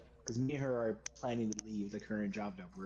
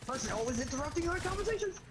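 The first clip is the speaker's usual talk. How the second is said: crazy hermit; 14 semitones higher, faster than usual. Pretend. Mock complaint in put-on voice.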